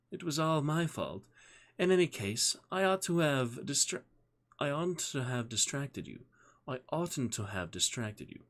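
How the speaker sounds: high-pitched, refined British woman; elegant British accent. A narrator's reading. She apologises to Chris after his fall, elegant British accent. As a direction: put on an elegant British lady's voice. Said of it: "she said in her elegant British accent".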